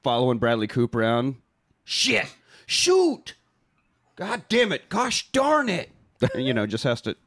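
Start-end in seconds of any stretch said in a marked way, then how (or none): 1.8-5.9 high, prissy swaps of curse words; slow, squeaky censored cursing; prim overdubbed swearing. Retold or imitated. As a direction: mimic a squeaky TV-edit dub. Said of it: "Like in Hangover".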